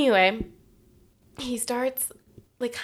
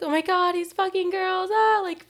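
high, loud panicked wail; mock freak-out; 12 semitones higher, 6 dB louder than usual. Imagining ex with other girls, high panicked shriek. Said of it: "freaking out".

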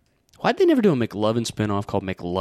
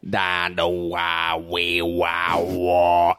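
mumbling into a fan; 5 semitones lower, much slower than usual. Retold or imitated. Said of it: "just being like".

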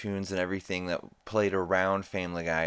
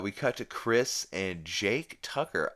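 usual speaking voice

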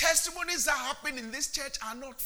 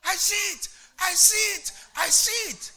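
higher, louder joyful cry; excited shouting; 9 semitones higher, 9 dB louder than usual. Retold or imitated. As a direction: shout it like a revelation. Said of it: "you started shouting".

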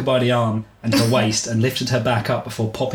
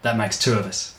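a hint of the laconic hero; gruff voice. Byron replying to the woman, lightly gruff. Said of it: "you like his gruff voice".

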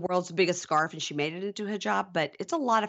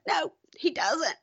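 mock whiny denial; 10 semitones higher than usual. Mocking her sulky denial.

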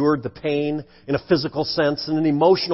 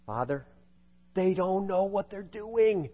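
hushed dying words; 9 dB quieter than usual. Acted. Preacher voicing Jesus on the cross, hushed. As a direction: let the words barely leave the lips.

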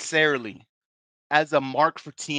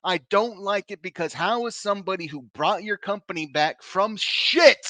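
angry; 4 semitones higher than usual. Real, not acted. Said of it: "I'm fucking pissed".

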